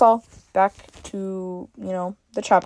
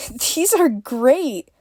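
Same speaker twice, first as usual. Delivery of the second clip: chuckling; 5 semitones higher, much slower than usual. A narrator's reading. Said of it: "Summer chuckled".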